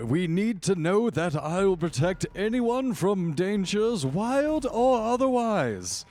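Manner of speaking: high, strained showman's proclamation; blustering lodge protector. Acted. Game lodge hunter promising to protect his guests, blustering.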